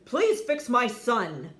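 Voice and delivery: stern father demanding a cure. Acted. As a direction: order the doctor about. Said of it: "demanded Crispin's father".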